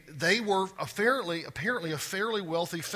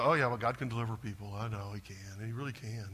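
mock half-hearted; 6 semitones lower, 5 dB quieter than usual. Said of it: "we go".

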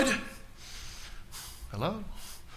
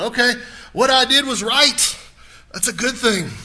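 woman's reassurance; 6 semitones higher, 5 dB louder than usual. Retold or imitated.

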